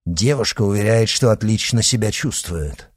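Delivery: ordinary delivery, nothing marked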